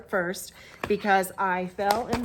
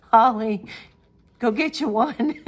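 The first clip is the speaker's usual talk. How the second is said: loud, teasing shout of the name; playful call out; 4 semitones higher, 8 dB louder than usual. Real, not acted. Knitter calling out to friend Holly to buy one, loud and teasing. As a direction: call across to her friend, egging her on.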